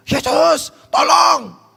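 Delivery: high, loud cry for help; desperate shouting. Acted. Mother calling to Jesus who ignores her, high shouted plea. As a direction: scream out as if he might not hear you. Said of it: "Teriak-teriak".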